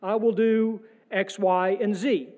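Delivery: mock pleading prayer. Preacher imitating a churchgoer bargaining with God, mock pleading. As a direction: play a believer cutting a deal, half-mocking. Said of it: "you've heard this one before".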